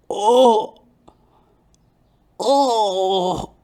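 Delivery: put-on high, loud, drawn-out old man's groan. Barber suddenly groans mid-haircut, high moan. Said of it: "he goes".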